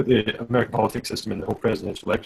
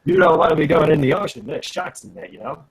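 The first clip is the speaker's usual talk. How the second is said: mock Australian accent. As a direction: casually warn in put-on Australian.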